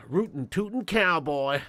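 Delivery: slow, drawn-out American cowboy drawl; put-on cowboy twang; mock cowboy accent. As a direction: play a hammy Wild West cowboy accent. Reprising the joke American Southern voice.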